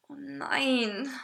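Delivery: whispered, drawn-out dismay; hushed groan of dread; murmured dread. A narrator's reading. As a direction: breathe it out under your breath. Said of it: "murmelte ich".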